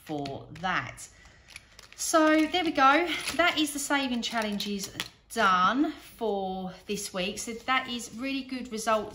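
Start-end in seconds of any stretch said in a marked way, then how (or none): 2.0-9.2 excited. Real, not acted. Triumphant wrap-up.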